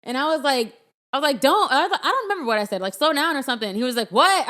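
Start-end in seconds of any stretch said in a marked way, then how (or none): 1.4-1.7 higher, louder snapped "Don't"; sharp warning. Retold or imitated. Wife warning husband at a turn, higher and louder. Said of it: "use a higher tone of voice". 2.9-3.4 higher, louder "Slow down"; retold yell. Wife telling husband to slow down, mock yell. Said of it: "your yell was in response to my yell". 4.1-4.5 higher, louder startled "What?"; retold yell back. Husband yelling back at his wife. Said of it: "your yell was in response to my yell".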